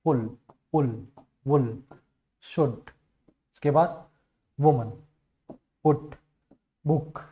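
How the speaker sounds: फुल पुल said slowly with a short light u; short soft oo. Shown as a demonstration. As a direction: keep the u in फुल short and unforced. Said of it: "बहुत धीरे बोलना है इसको".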